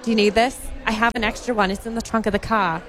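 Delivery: put-on mom's Boston accent. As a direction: imitate a mom with a dropped-R Boston accent. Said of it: "I don't know why I gave her an accent".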